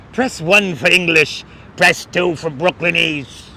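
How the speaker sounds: lightly voiced Brooklyn phone menu; mock Brooklyn accent. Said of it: "you like the New York accent?".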